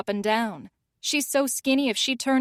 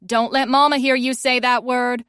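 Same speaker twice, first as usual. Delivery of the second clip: raised voice calling after her; 5 dB louder than usual. Acted. Callie calls after Fiona leaving, raised calling voice. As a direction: call it out to someone leaving the room. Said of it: "I call out after her".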